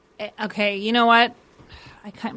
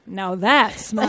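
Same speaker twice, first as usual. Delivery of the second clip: slow, lightly voiced little man; little man impression; much slower than usual. Mimicking man behind the trash can, slow little-man impression.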